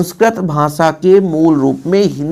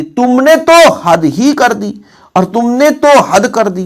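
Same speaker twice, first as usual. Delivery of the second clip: slow, higher, तो stressed; teacher dwelling on तो for emphasis; 5 semitones higher, 3 dB louder, slower than usual. Shown as a demonstration. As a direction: stretch out तुमने तो हद. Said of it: "ही जोड़ दे".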